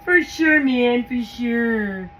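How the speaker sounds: enthused. Real, not acted. Agreeing with herself, enthused. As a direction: lean into each for sure.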